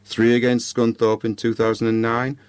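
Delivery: measured storytelling with dramatic pauses; story narration. A narrator's reading. Podcaster reads a Christmas ghost story to listeners, measured narration. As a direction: read it out in short, spaced phrases.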